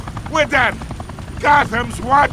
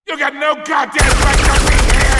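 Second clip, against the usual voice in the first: angry shout; 2 semitones higher, 5 dB louder than usual. Acted. Gangster yelling at intruder.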